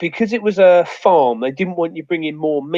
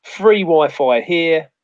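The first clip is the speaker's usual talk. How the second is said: slow sign reading; 2 semitones higher, 4 dB louder, much slower than usual. Retold or imitated. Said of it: "put up a sign saying".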